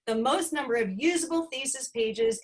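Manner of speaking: "usable" given the main emphasis; stress on usable. Real, not acted. Presenter repeating the student's record for the audience, stress on usable. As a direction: repeat the phrase, leaning on "usable". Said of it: "emphasis on usable".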